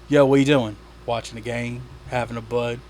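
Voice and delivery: a hint of the laid-back commercial; lightly imitated beer-ad guys. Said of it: "that commercial where it was like".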